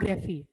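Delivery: ग्राफी said "grɛfi", soft and falling; correct pronunciation. Shown as a demonstration. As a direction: model ग्राफी as "grɛfi", not "graf". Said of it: "इसका pronunciation ग्राफ नहीं है". (ग्राफी का सही उच्चारण, नरमी से)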